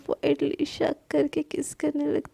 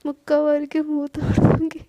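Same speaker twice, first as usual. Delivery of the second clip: louder teasing echo of a threat; playful angry imitation; 4 dB louder than usual. Sana teases Palak by loudly mimicking her threat. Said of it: "तुम जब ये गुस्से में बोलती हो ना".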